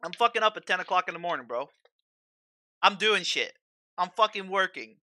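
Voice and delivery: fast, loud, heated outburst; angry rant. Real, not acted. Streamer venting at chat about his dad, angry and loud. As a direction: vent the frustration hard and fast. Ranting about dad's criticism.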